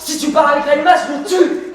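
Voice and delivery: heated threat rising in pitch; jealous lover's outburst. Acted.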